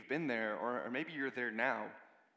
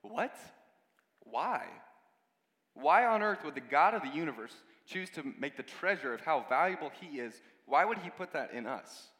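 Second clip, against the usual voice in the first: astonished wonder; 2 semitones higher, 5 dB louder than usual. Retold or imitated. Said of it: "be like".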